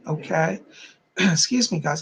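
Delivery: hiccuping and coughing. Real, not acted. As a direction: voice catching on hiccups. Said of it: "I'm hiccuping and coughing".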